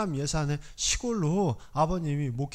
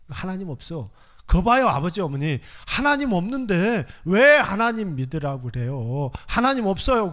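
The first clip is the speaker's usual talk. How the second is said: raised, indignant outburst at his parents; a grown son's bitter protest, louder; angry retort; 4 dB louder than usual. Retold or imitated. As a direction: hurl it at them in anger. Angry son confronting parents.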